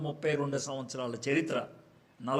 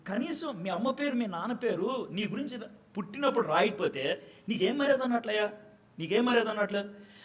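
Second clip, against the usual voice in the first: a hammed-up telling-off of Moses, pitched up; mock scolding, rising; 5 semitones higher than usual. Scolding Moses about parents' names. (మోషేను ఎత్తైన స్వరంతో నాటకీయంగా తిట్టడం)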